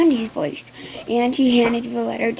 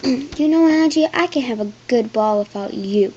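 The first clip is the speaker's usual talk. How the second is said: cold; 5 dB louder than usual. Acted. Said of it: "Harold said".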